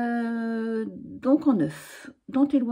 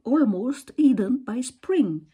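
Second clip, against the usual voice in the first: slow, careful English title with a French accent; slow corrected English title in a French accent; 2 semitones higher, 4 dB louder, slower than usual. Shown as a demonstration. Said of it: "avec mon accent aussi".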